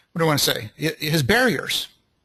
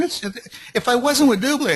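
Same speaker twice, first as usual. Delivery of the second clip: enthusiastic; 6 semitones higher than usual. Shown as a demonstration. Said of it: "you can hear the enthusiasm".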